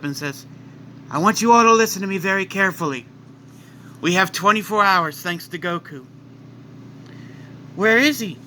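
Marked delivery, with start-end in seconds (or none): 1.1-6.1 fast, louder, urgent announcement; urgent Supreme Kai. Acted. Supreme Kai warning everyone, urgent and fast. 7.8-8.4 anxious question. Acted. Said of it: "Kine asks".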